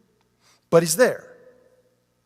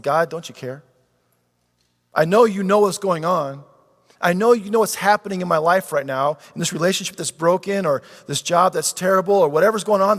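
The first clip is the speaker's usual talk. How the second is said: anguished prayer; 2 semitones higher, 4 dB louder than usual. Acted. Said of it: "Ever cried that in a storm".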